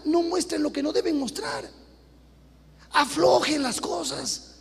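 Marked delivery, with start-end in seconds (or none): 2.9-4.5 slow, shouted urging; slow forceful plea. Acted. Preacher urging the women to loosen up their clothing, slow shout. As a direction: drive it home slowly.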